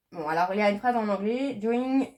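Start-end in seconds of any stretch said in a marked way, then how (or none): 1.5-2.1 French accent. Real, not acted. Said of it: "je suis désolée, mon anglais est vraiment, euh, pas, pas ouf".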